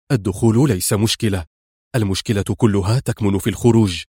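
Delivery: "الدخول ليس مشكلة" said low and matter-of-fact, falling; firm man. Acted. Rescuer explains the escape, lightly firm and low. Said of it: "قال بنفس الحزم".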